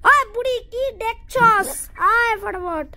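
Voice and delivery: taunting call. Real, not acted. Taunting the old woman in the game.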